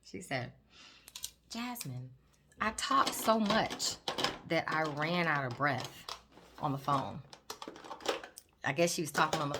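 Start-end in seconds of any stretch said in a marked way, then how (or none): 1.5-7.2 quoting patient. Retold or imitated. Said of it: "One lady told me, she said".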